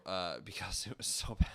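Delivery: whispered with a laugh; half-laughing under the breath. Real, not acted. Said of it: "I don't want to".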